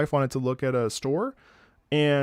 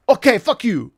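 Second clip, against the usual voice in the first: louder, higher brush-off; dismissive; 8 semitones higher, 8 dB louder than usual. Retold or imitated. Both drivers parting, loud and dismissive. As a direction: shrug it off with a loud okay. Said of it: "they were basically like".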